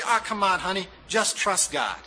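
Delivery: a touch of an impatient brushing-off husband; lightly voiced husband waving her worries away; dismissive husband. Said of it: "don't say".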